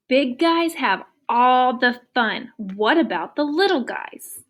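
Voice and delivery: slow, drawn-out complaining elephant. Acted. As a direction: read it like a grumbling elephant. Teacher voices elephant's complaint.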